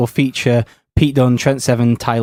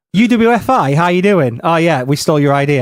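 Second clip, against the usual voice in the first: caller voice; 3 semitones higher than usual. Pretend. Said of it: "There's a call on the other line".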